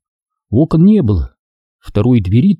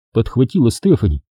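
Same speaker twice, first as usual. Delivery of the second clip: ordinary delivery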